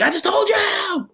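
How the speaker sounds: high-pitched, drawn-out mock yell; exasperated retort. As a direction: whine it out as an exasperated cartoon retort. Retelling character's exasperated reply.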